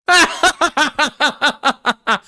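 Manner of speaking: loud high-pitched burst of laughter. Real, not acted. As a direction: laugh out at the cheeky comment. Streamer reacts to chat insult.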